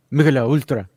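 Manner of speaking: a light mock Argentinian accent on the beer name; Messi's Argentinian accent. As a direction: say "Michelob Ultra" bluntly, like Messi with an Argentinian accent. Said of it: "he said it with his thick Argentinian accent".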